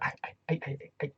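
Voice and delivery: high, loud mumble with something in the mouth; mumbling Rich Swann. Retold or imitated. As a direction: talk like there's tobacco in your mouth. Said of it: "he's like".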